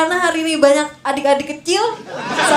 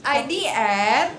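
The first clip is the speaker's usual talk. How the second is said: slow low tagline; 6 semitones lower, 7 dB quieter, much slower than usual. Pretend.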